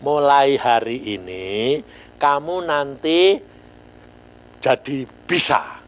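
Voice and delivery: slow, calm, solemn pronouncement; lightly voiced God, slow and measured. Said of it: "Tuhan yang ngomong".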